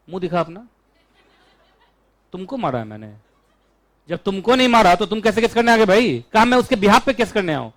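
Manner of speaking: lightly voiced challenge to the stranger suing; mock court retort. Teacher acting himself scolding a stranger in court, mock retort. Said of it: "मैं बोलूंगा".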